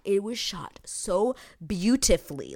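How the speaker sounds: whispered, slow awe. Real, not acted. Praising the filming to viewers, whispered awe. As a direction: breathe it out in awe.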